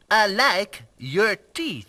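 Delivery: slow, put-on French accent; French accent practice, slowly. Man practising French accent on puzzled friend, slow French accent. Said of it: "I'm learning the French accent".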